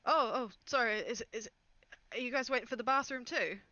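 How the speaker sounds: flustered, pitch lifted; startled apology. Acted. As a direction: caught out, fumble for an excuse. Passenger startled by guards, plays innocent.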